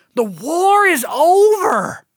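very high, desperate, drawn-out screaming cry. Describing an audio production they heard, imitating Kate's desperate scream. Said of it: "She just screams".

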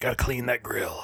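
quiet muttering under the breath. Going on the record about what he said afterwards, muttering to himself. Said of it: "I muttered to myself".

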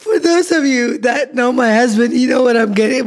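words broken up by laughter throughout. Teasing about a husband's talk while laughing while talking. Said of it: "I'm laughing so hard".

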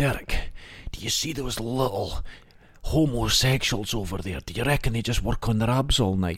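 very rough, gruff male voice. Retelling what a guy in class always said to Derek, imitating his very gruff voice. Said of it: "he had a very gruff voice".

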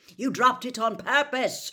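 full-throated bellow, roaring, loud and high. Narrator reads a man answering a boy in an argument; roaring. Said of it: "roared Mr. Weasley".

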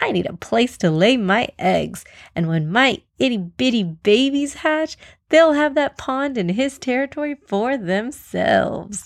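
impatient voice. Reading a fable, the crocodile interrupts the other animals: impatient crocodile voice. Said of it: "Crocodile interrupted impatiently. / Crocodile interrupted impatiently. "Come on, were you not paying attention to his whole lonely speech? I'm alone when I eat. I'm alone when I sleep. I'm alone when".

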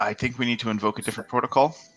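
hushed whisper. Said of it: "are we just whispering to each other now?".

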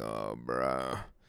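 very low, rough, deep gravelly voice. Telling listeners your voice has changed lately, speak in a gravelly voice. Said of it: "now I got that gravelly".

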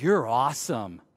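deep, very low, heavily sarcastic mocking tone. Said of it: "Do you hear the sarcasm?".

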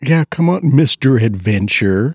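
put-on honeyed, sweet, seductive, cajoling voice. Imitating her coaxing him into doing something, in a mock sweet seductive voice. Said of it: "her nice little sweet seductive voice".

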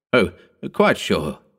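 in good cheer, cheerful. Narrator reads the first-person narrator's answer to the girl's question, cheerful. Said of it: "I answered cheerfully".

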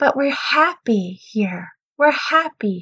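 very slow, high, syrupy, sugary-sweet voice. Retelling what a woman at the front said, in a very sweet voice. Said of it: "in this very sweet voice".

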